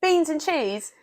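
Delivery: high-pitched British vendor call; bad British accent. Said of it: "that was a bad British accent".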